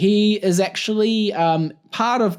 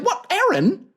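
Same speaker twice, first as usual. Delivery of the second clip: quoting everyone; 14 semitones higher than usual. Retold or imitated. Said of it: "And everyone's like".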